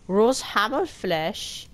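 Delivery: Hammelfleisch read slowly, syllable by syllable; careful learner reading; slow German word practice; sounding out German. Shown as a demonstration. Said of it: "how to pronounce some of the words".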